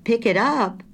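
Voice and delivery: high, startled echo question; taken-aback, high-pitched query; surprised. A narrator's reading. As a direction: repeat it back in surprise. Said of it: "In her surprise".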